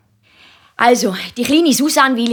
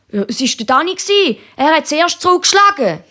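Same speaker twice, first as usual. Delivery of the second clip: hohe, protestierende Kinderstimme; Bub wehrt sich; 8 semitones higher than usual. A narrator's reading. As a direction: verteidige dich wie ein Kind, immer höher. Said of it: "Da wehrt sich der Christoph". (höchi Buebestimm, wehrt sich)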